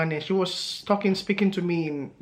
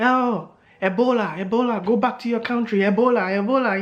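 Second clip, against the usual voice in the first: mock screaming; 4 semitones higher, 3 dB louder than usual. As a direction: imitate an old man's screaming, mildly raised. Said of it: "he started screaming".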